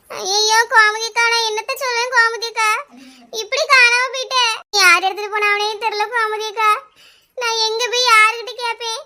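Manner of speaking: theatrical weepy wail; hammed-up helpless weeping; crying lament. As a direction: pour out the loss tearfully. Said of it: "Lakshmi, அழாதம்மா".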